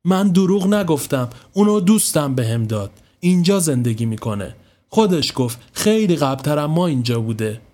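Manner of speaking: a touch of hurt defiance; mild defensive anger. Acted. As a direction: push back, stung. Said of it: "با حالت تهاجمی گفت".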